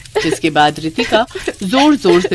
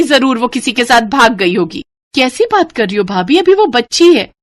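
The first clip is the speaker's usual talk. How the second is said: harsh dismissive; 4 semitones higher, 4 dB louder than usual. Acted. Callous harsh sister-in-law.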